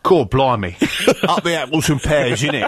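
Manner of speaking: mock Cockney-style Kent accent. Shown as a demonstration. Guest obliging the host's request, jokey Kent accent. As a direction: ham up a Kent accent, chuckling midway. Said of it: "Can you do a Kent accent?".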